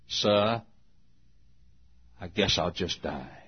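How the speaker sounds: low, soft, resigned, with a long pause after "Sir"; understated imitation of an old man near tears; quietly tearful. Old coach answering about his retirement, quietly sad. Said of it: "through moistened eyes, the old grizzled coach said".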